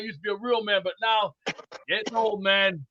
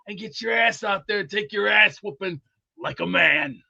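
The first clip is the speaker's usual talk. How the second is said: tough-love lecture; 4 dB louder than usual. Real, not acted. Lecturing the draft picks.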